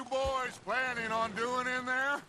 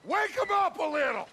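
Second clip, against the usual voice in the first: mocking shout. Gang leader calling at barricaded car.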